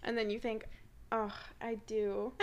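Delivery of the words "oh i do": fishing for compliments. Retold or imitated. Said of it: "fishing for compliments".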